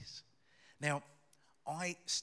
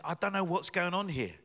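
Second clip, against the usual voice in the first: retold exclamation; 6 semitones higher, 7 dB louder than usual. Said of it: "he says".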